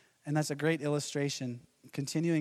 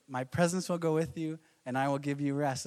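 lower, unruffled patient answer; God's calm reply; 3 semitones lower than usual. Retold or imitated. God patiently repeating his promise to Moses. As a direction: say it again, unbothered. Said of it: "imagine Moses".

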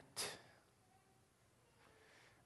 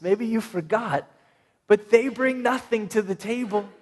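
incredulous disciples; 5 semitones higher than usual. Acted. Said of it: "they just look at Jesus like".

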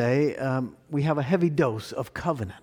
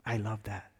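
quietly to herself, much softer; soft murmur; 6 semitones lower, 11 dB quieter than usual. Real, not acted. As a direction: murmur it almost under the breath. Repeats phrase, first softly.

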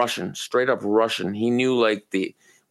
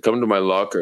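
put-on Russian accent; 3 semitones lower than usual. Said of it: "I don't know if I'm doing the accent right".

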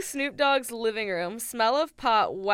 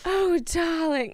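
bad British accent; 7 semitones higher, 5 dB louder, slower than usual. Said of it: "gonna try to be British".

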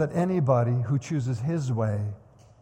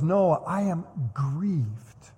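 grieved; much slower than usual. Retold or imitated. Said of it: "not angry".

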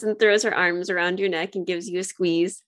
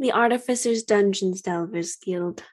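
whispering. Acted. Whispering aside.

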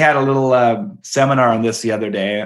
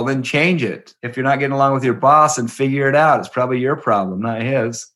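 disgusted father; 3 semitones higher, 3 dB louder than usual. Retold or imitated. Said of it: "like, disgusted".

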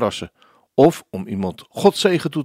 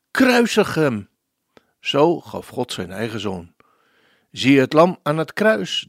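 solemn poem recitation. Acted. Radio host reciting the requested hymn to listeners, solemn and measured. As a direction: recite the lyrics like a devotional poem.

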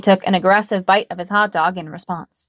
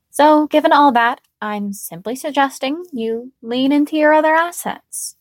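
put-on playful young woman voice; 6 semitones higher than usual.

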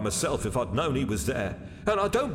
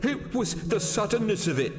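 high-pitched, sheepish excuse. A narrator's reading. Waiter excusing his fright to the stout commercial, sheepish. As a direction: make an embarrassed excuse in a high voice. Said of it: "said George sheepishly".

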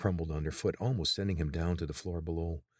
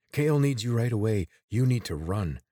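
urgent; 4 semitones higher, 6 dB louder than usual. Acted. Urging the guard to leave.

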